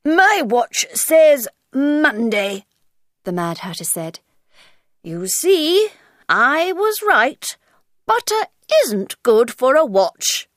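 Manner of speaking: Hatter voice. Acted. Hatter complains.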